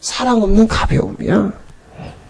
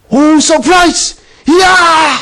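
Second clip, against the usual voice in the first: mock surprise; 3 semitones higher, slower than usual. Preacher mocks the resurrection news.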